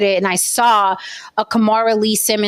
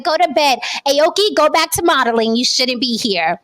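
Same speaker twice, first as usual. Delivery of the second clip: mock mother voice; 5 semitones higher than usual. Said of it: "she was like".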